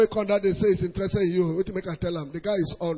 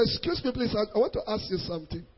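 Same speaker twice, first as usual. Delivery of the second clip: softer, polite "excuse me, please" from the car; polite mock call; 8 dB quieter than usual. Preacher acting a man calling a lady from his car, soft polite call. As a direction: call her over gently.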